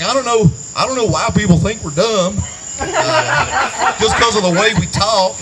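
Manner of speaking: lightly imitated strong country accent. Comedian quoting his work friend onstage, imitated country accent. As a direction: put on a bit of a friend's country twang. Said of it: "who has a strong country accent".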